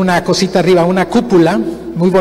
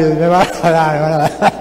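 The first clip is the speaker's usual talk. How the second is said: hammed-up blubbering; comic sobbing repetition; mock crying; 2 semitones lower than usual. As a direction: imitate your childhood self crying in dread. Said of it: "Y yo comencé a llorar".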